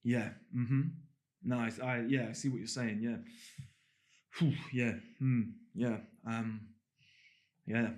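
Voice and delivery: mock someone who cannot stand the silence; imitating a listener who fills every gap with noises; filler-heavy listener. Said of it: "some people would do this".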